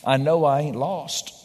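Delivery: calm farmer. Retold or imitated. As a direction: let the punchline land calmly. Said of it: "the farmer said calmly".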